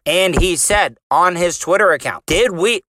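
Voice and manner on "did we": lightly nerdy reading voice; a hint of a nerdy guy reading; white nerdy voice. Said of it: "read it in my white nerdy voice".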